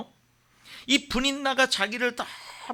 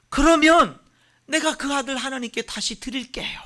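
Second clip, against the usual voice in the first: higher, fervent pleading; earnest crying out; 4 semitones higher than usual. Acted. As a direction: cry out to God with rising urgency. Hannah's prayer builds. (간절히 부르짖는 기도)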